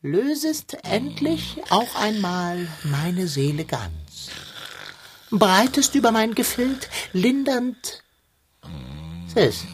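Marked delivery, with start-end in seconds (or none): 0.0-8.0 slow, solemn recited verse; poem recital. Acted. Cat recites Goethe slowly to lull the twins asleep. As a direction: lull them to sleep with Goethe.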